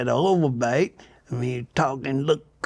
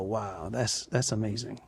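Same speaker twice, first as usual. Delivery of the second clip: hushed wonder; 4 semitones lower, 11 dB quieter than usual. Retold or imitated. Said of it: "you just go".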